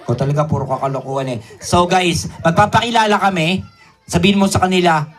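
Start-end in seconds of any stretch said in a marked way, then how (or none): 0.1-1.4 low, fast, muttered exasperation; exasperated aside. Acted. Host grumbles at puppet's jokes, fast and low. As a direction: roll your eyes and rattle it off.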